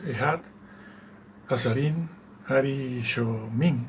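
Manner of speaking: slow, careful Hebrew "Ehat Hazarin Harishomin"; half-sure Hebrew reading of "Ehat Hazarin Harishomin"; unsure Hebrew. Shown as a demonstration. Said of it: "yo no sé pronunciar el hebreo".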